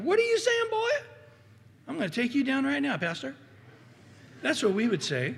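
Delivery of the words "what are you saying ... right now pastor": hammed-up in-your-face challenge; mock angry confrontation. Congregant confronting the pastor, in hammed-up outrage. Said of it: "You'd get in my face going".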